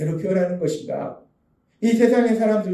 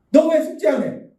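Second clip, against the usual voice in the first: higher, mock scolding mother; scolding mom; 7 semitones higher, 4 dB louder than usual. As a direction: nag like an annoyed mom catching a lazy kid. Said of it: "엄마가 혼낼게요". (숙제 안 한 아이를 다그치는 엄마 흉내, 높은 목소리)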